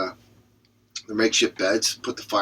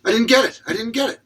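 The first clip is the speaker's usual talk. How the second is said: much higher hammed-up dismay; mock upset wail; 11 semitones higher, 5 dB louder than usual. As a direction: whine the failure. Character upset at failing.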